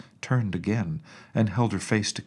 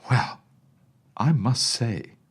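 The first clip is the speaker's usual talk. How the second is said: vexed; 4 semitones higher, 5 dB louder, slower than usual. A narrator's reading. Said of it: "remarked the nurse, now thoroughly vexed".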